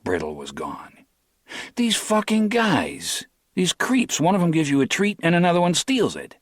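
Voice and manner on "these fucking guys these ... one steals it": high, fast griping at the thieves; bitter rant. A narrator's reading. Harry fuming alone in his cell, griping high and quick. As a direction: spit out the complaint, pitched up.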